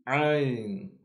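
Ain said sharply from the inner throat; Arabic letter Ain. Shown as a demonstration. Teacher demonstrates Ain to learners. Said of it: "we make the sound very sharp".

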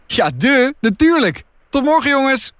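put-on high-pitched, cheeky girl's voice; breezy farewell. Tess takes leave of the boys, breezy and high.

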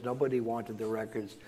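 ordinary talk

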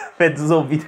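quoting mom's phrase through a laugh; laughing mom quote. Retold or imitated. Son laughing as he repeats mom's odd phrase, laughing. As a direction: giggle while echoing her words. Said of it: "como ela fala lá".

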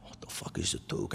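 put-on breathy hushed kid question; under his breath, baffled; hushed confusion. Kid mutters, baffled by the older boy's taunt.

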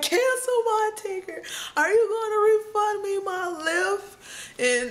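high-pitched indignant demand; worked-up complaint to the agent; not having it. Retold or imitated. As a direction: re-enact an irate customer, drawing out the end. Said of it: "I was just like, not having it".

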